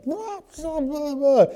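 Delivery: high, squealing imitation of a screaming wife; mock screaming wife. Preacher imitating his wife screaming, high mock squeal. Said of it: "she's screaming already".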